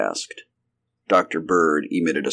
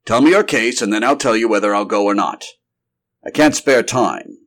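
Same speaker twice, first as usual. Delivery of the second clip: scolding doctor; 4 semitones higher, 5 dB louder than usual. Acted. Doctor scolds friend, then relents.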